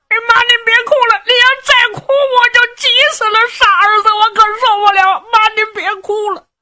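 put-on high, fast, childish voice of a simple young man; simple-minded lad. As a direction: blurt it out like a guileless big kid. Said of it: "傻小子罗时信受不了了". (傻小子尖声急促地劝娘)

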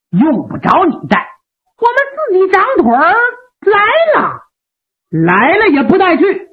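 a cocky warrior calling his bluff; brash Meng Liang. Acted.

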